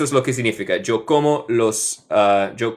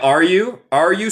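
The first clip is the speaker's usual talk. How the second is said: "are you?" with a high rising question tune; question rise; 6 semitones higher, 3 dB louder than usual. Shown as a demonstration. Teacher shows the question intonation to students. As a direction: lift the end like a question. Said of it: "sería una cuestión".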